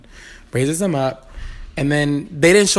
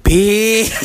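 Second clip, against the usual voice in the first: excited exclaim; 6 semitones higher, 6 dB louder than usual. Retold or imitated. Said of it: "She said".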